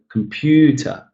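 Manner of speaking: slow down and lift the middle of "computer". Shown as a demonstration. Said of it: "pitch is usually higher in a stressed syllable".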